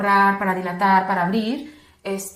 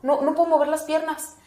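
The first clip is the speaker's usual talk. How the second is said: higher-pitched retold distress; helpless protest; 5 semitones higher than usual. Mother tells them her legs fail, high helpless protest. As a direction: imitate mild alarm, voice raised in pitch.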